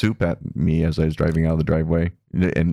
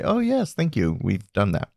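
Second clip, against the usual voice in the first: up inflection; 2 semitones higher than usual. Shown as a demonstration. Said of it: "don't do it in a, like, a".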